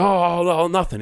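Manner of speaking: high, hammed-up caught-out stammer; imitating a cornered man feigning innocence; mock nervous denial. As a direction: play the harasser caught by police. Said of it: "he's like".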